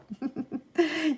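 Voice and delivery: soft chuckle; real, quiet laugh after a joke. Real, not acted. Laughs at own aside.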